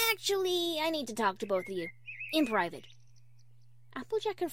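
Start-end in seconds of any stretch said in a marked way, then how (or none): 0.1-2.9 nervous. Acted. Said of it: "nervously staring at the ground".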